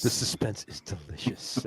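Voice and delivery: slow, drawn-out movie quote; echoed Willy Wonka quote. Retold or imitated. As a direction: savour each word slowly, imitating a film line. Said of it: "To quote Willy Wonka".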